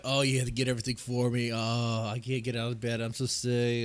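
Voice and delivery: milk it like a pitiful invalid; mock sick whining. Husband pretending to be deathly ill to his family, mock whining. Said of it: "and be like".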